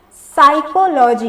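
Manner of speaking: "साइकोलॉजी" said slowly from an s sound; silent P. Shown as a demonstration. Teacher answering how it is pronounced, "साइकोलॉजी" with silent P. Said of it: "इसका pronunciation हम लोग क्या पढ़ते हैं?".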